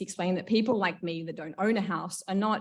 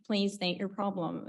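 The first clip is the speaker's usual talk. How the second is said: automated phone voice; 3 dB quieter, slower than usual. Retold or imitated. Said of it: "talking on the phone to an automated voice".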